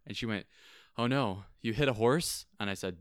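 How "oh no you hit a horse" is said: louder mock-alarmed question; retold dismay, rising to a question; imitating shocked reaction. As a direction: act out someone aghast on the phone. Retells pizza worker's shocked reply.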